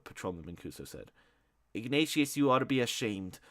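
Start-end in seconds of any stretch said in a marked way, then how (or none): 1.7-3.4 angry. Acted. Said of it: "said in an angry voice".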